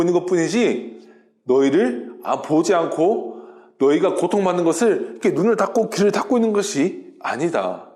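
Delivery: measured, mildly acted divine reassurance; calm teaching. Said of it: "침착하게 다시 가르쳐 주시는". (침착하고 친절하게 타이르듯)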